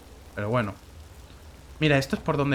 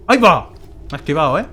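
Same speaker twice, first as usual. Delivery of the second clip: surprised; 2 semitones higher, 6 dB louder, faster than usual. Real, not acted. Startled when an enemy dodges again. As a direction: yelp it, startled.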